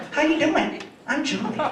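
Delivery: high automated-agent greeting; animated voice. Retold or imitated. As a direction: lightly imitate a chirpy phone system. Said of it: "the animated voice".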